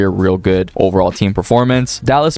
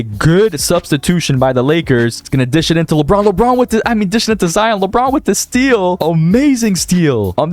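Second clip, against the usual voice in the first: play-by-play commentary. Acted. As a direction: narrate the final seconds like a broadcaster. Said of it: "Can I just say W commentary".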